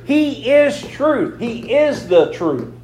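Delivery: slow with "is" leaned on; stress on is. Shown as a demonstration. Preacher to congregation, slow emphasis on is. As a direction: press "is" in He is truth. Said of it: "emphatic repetition".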